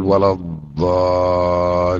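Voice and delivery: ولا الضالين said very slowly with the ل held long; slow teaching model of ولا الضالين; doubled lam. Shown as a demonstration. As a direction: hold the ل of الضالين. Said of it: "حتى يظهر التشديد في اللام".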